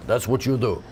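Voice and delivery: playful mock Russian; firm Russian-accented commands. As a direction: keep up a comic Russian accent. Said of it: "You could do a Russian accent".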